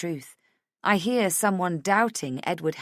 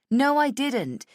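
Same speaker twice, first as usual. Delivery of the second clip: high, emphatic protest; raised pitch, defensive snap; indignant denial; 9 semitones higher, 5 dB louder, slower than usual. Acted. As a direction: deny it hotly. Heated denial in quarrel.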